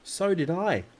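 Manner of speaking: high, loud, startled agreement; alarmed. A narrator's reading. Brother also heard the strange voice, alarmed. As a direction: blurt it out in alarm.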